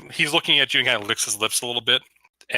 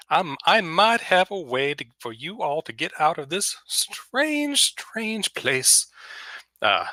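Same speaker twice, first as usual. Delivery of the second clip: Lindsey Graham voice. Acted. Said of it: "Southern Belle sort of character".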